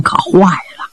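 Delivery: slow grave whisper; hushed dread. A narrator's reading. Narrator reveals the grave wound, slow hushed whisper. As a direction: drop to a whisper as the news turns bad. Grim turn at the sickbed.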